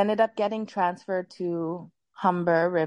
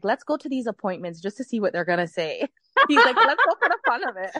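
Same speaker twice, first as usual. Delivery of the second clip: laughing; 4 semitones higher, 3 dB louder than usual. Retold or imitated. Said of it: "Joel is like".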